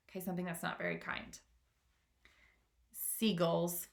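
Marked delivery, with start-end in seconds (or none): 2.9-3.9 calmly. Acted. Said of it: "answered James calmly".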